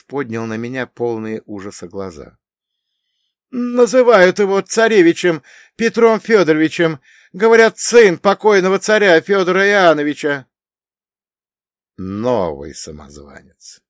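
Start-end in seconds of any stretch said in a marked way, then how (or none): 3.5-10.5 high, loud, frightened report; terrified. Acted. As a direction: blurt it out in terror. Terrified messenger reports news. (в ужасе)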